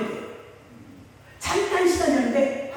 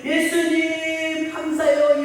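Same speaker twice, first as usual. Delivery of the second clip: 벅찬 눈물; 4 semitones higher, much slower than usual. Retold or imitated. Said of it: "입에서 벅차게 눈물을".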